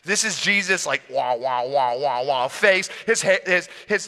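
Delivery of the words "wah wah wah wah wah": repeated "wah" sound effect; comic wah-wah effect; imitated glowing noise. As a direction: mimic a pulsing otherworldly shimmer. Imitating Jesus' face transfiguring.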